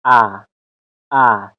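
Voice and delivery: short open A, as in "cat"; short A sound. Shown as a demonstration. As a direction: say ا as a brief English short A.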